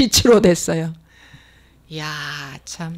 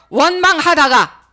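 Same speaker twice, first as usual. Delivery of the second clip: preaching climax; 5 semitones higher, 4 dB louder than usual. Acted. Refrain peaks at list end.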